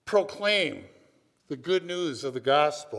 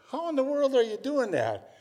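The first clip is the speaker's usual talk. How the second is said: amazed; 10 semitones higher than usual. Retold or imitated. Amazed at guide's catches.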